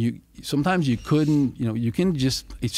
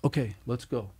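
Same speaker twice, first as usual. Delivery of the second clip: softer, unbothered, as if nothing happened; calm after the storm; 6 dB quieter than usual. Retold or imitated. Mom turns calm after slashing the tires, softly. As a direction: say it calmly, like it's just errands. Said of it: "and then she calmly".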